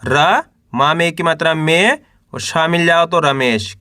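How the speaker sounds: teacher's spelling drill, held rising syllables; syllable-by-syllable sounding out. Shown as a demonstration. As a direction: sound out each letter for beginners to repeat. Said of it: "एक अक्षर का उच्चारण करके इनको पढ़ रहा हूँ".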